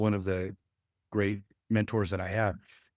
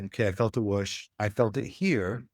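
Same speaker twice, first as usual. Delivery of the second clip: calm curious demo. Retold or imitated. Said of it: "And then I'll say".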